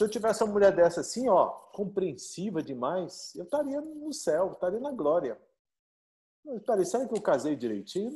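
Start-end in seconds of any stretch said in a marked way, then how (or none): none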